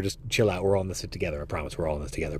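calm them down as the voice fades out; fading reassurance. Acted. Soothing offended listeners.

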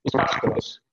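crackly breaking-up connection. Real, not acted. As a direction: voice cutting out on a bad line. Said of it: "You're breaking up".

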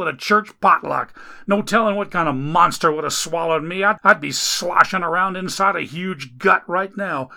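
griping complaint. Acted. Man hauling Dagon upstairs complains to God, griping loudly. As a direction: gripe up the stairs at heaven. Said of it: "the complaints didn't stop".

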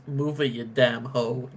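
gruff dismissive dad. Retold or imitated. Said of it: "It's just".

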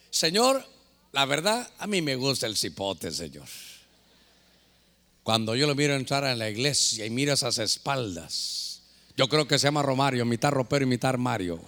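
low, hushed mock confession, sinking at the end; imitated confiding prayer. Smitten churchgoer telling God about her crush, imitated confiding prayer. Voices a smitten woman praying.

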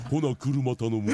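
very slow, deep-voiced request; lowest voice. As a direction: drag it out in the lowest voice possible. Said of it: "人間界で一番低い声で".

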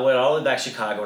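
imitating a young fan's quick, excited report; excited kid, retold. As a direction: blurt it out fast, like a thrilled child. Excited child tells parents about the hat.

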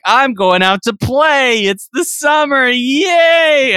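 put-on high, bouncy little boy cheer; chirpy little brother heading out to play; kid voice. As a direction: squeal it like an excited little kid.

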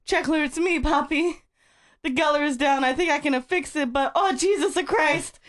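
a lightly played frantic radio call; Poppy on the radio. Reading the story aloud, Poppy calls Checkler as the radio fails. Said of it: "Poppy said and the radio cut off".

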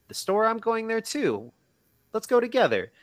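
very high-pitched mock enthusiasm; retold eager suitor. Suitor invites himself on her errand, mock eager. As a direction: jump at any excuse to come along, hammed-up.

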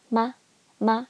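"ma" short and light; light neutral tone. Shown as a demonstration. Teacher showing question particle, "ma" light and neutral. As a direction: tap "ma" lightly, without stress. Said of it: "light and we call it a neutral tone".

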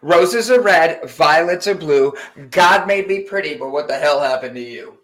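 reading a poem. Pretend. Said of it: "I'm gonna read you my poem".

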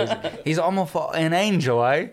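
lightly hammed-up British accent; badly faked British accent, close to laughing; British impression. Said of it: "my impression of a British person in general".

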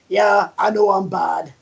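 badly faked Scottish accent; horrible Scottish accent. Wrestler owning up to being bad, horrible Scottish accent. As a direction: have a poor go at sounding Scottish. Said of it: "That's my horrible Scottish accent".

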